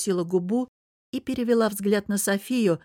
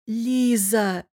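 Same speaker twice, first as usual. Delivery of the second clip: blurted out; 4 semitones higher, 3 dB louder than usual. Acted. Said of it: "выпалила София".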